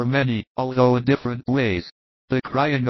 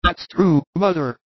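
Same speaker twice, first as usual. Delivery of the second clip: repentant son; 6 semitones higher than usual. Acted. Son apologises to mother.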